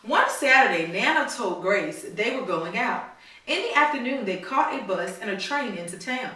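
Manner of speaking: storybook read-aloud to a class; reading to children. A narrator's reading. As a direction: read it like a story for little kids. Teacher reads picture book aloud.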